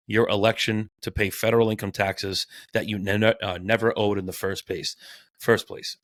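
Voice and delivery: tripping over words; stumbling and restarting mid-word; stuttering. Real, not acted. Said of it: "I'm stuttering today".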